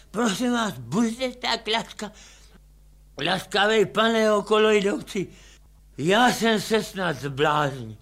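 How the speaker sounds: put-on a confused drunk asking for help; a hint of a lost drunk; bewildered drunk. Drunk man pleads.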